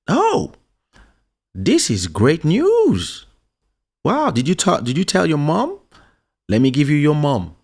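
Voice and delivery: hammed-up thrilled father; mock overjoyed dad, high and loud; excited dad. Dad hears big news.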